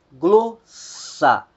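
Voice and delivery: "glossa" stressed on "glo"; Greek stress demo. Shown as a demonstration. Teacher showing students the first-syllable stress. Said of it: "a primeira sílaba".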